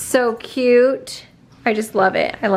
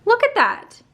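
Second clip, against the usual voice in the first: excited; 12 semitones higher than usual. Real, not acted. Showing off arms.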